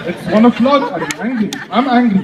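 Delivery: "angry" said for hungry, H silent; French dropped H. Acted. French person explaining it's dinner time, French dropped H. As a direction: drop the H so hungry becomes "angry". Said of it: "you guys don't say the H".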